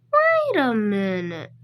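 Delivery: loud, long-drawn "wait" sliding down; exaggerated surprise. Real, not acted. Animator halting his own rap, drawn-out surprise. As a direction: stretch it out loudly, falling away. Breaks off rap, catches a problem.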